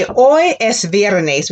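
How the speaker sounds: slow and clear, each word apart; slow repeat-after-me model; slow model sentence. Shown as a demonstration. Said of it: "Now you're gonna say".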